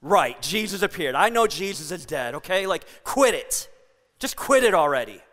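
low, dismissive brush-off; low mock scolding of the other disciples; scoffing doubter. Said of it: "And Thomas is like".

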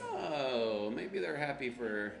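drawn-out, slow dawning 'oh'; mock-innocent realization, stretched out; knowing realization. Pastor joking about the Happy Church, knowing realization.

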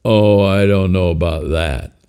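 slow, hesitant puppet voice; unsure creature voice. Acted. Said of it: "the voice said".

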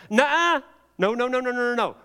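high, rapid-fire mock scolding; acted alarmed veto, pitched well up; emphatic refusal. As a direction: cut them off with urgent objection. God interrupting the backslider, acted.

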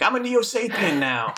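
lightly voiced smug convert; dopey villain voice. Imitating Hercules Mulligan as a goofy Neo Sapien. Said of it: "he's like".

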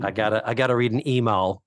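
quick mock Midwestern delivery; Midwestern accent. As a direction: toss it off with Midwestern vowels. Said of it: "Midwestern, yeah".

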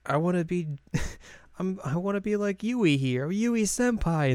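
high-pitched admiring schoolgirl impression; gushing fan. Newcomer telling the club she admires Yui, gushing. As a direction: imitate a fan gushing over an idol.

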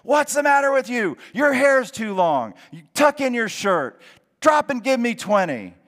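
high, loud barked orders; drill sergeant yelling. Retold or imitated. Old sergeant screaming at discharged soldier on the street, loud and high. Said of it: "he starts screaming at you".

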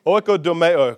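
"Oikodomeo" said as oi-ko-do-me-o with a falling end; teaching pronunciation. Shown as a demonstration. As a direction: model "Oikodomeo" clearly for repeating. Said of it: "Can you say that?".

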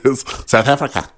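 put-on light South African accent. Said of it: "the only South thing I can say in a South African accent".

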